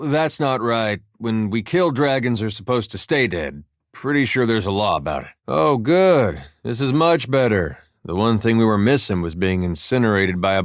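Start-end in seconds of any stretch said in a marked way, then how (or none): 5.5-7.8 dry mock relief, lifted on "good"; higher-pitched sarcastic "oh, good". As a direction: feign delight at a worsening mess. Mock relief at being bombed.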